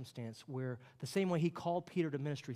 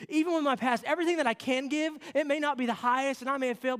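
louder, higher, urgent declaration; broken-hearted pledge; 7 semitones higher, 5 dB louder than usual. Acted. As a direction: give everything, knowing it falls short. Peter's heartfelt confession continues.

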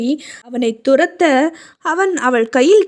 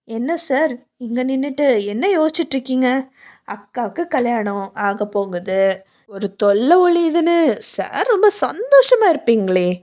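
teasing. Acted. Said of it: "அவள் கிண்டலாக கேட்டாள்".

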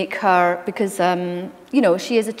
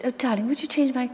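posh grandmother; 2 semitones higher, 6 dB quieter, faster than usual. Retold or imitated. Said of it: "she would go".

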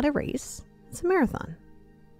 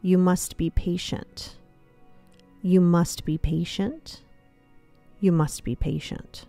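slow repeated counsel; slower than usual. Acted. Squirrel repeats patient advice.

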